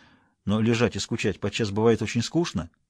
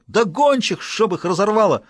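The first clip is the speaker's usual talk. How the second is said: shouting; 7 semitones higher, 3 dB louder than usual. Acted. Huntsman shouts at master.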